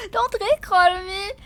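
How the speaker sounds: high, loud, whining protest; loud whiny complaint. Real, not acted. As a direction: wail it at chat.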